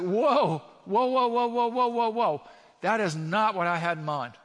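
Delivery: high, loud, rapid string of whoas in mock alarm; Habakkuk's alarm. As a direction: play Habakkuk recoiling in shock at God's answer. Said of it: "And Habakkuk is like".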